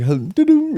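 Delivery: high sung-out phone assistant beep; playful imitation of a phone chime; imitated Siri chime. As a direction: mimic a little electronic chime, up high. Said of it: "just like".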